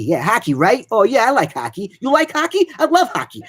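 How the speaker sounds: a pumped-up smack-talking hockey fan; tough guy hockey fan. Shown as a demonstration. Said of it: "this little tough guy, hockey".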